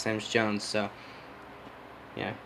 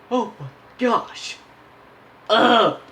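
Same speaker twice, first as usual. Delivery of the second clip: high, slow, drawn-out yawn; loud high yawning sigh; yawning groan; 12 semitones higher, 6 dB louder, much slower than usual. Real, not acted. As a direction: groan through a big yawn. Yawning mid recording, groans.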